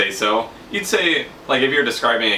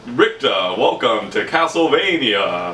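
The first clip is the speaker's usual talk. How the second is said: slow, lightly voiced vampire lord; a hint of Dracula; slower than usual. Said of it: "Say it like Dracula".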